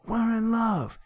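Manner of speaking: high, loud melodramatic cry; acted scream. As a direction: scream out a desperate declaration. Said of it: "Chuck screams out".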